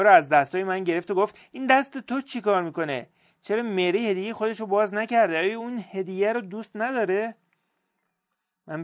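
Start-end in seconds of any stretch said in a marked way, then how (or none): 1.5-7.3 put-on higher, pleading child's questions; a hurt boy pressing for answers; upset little boy. Todd demands why Mary never opened his gift, upset child voice.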